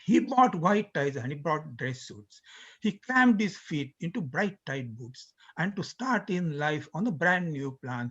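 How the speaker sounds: slow, measured verse reading; reciting a comic poem to students; poem recitation. Acted. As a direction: recite the lyric in slow sung-speech rhythm. Recites Gilbert's lyric as poem.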